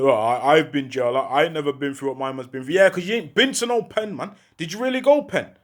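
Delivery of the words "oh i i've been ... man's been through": much lower mock voice, hurried at the end; mimicked jail talker. Mimicking a man who says he's been jail, in a low mocking voice. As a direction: imitate someone going on about doing time.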